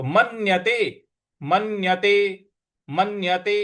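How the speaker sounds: "मन्यते" with a held, doubled n; stressed half n. Shown as a demonstration. Teacher models "मन्यते" with stress on the half n. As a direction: press on the n in "मन्यते". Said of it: "आधा न है उस पर हमको आघात देना है".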